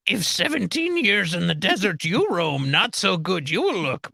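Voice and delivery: lightly voiced Yoda with inverted words. Friend jokes about aging in the desert, lightly voiced Yoda.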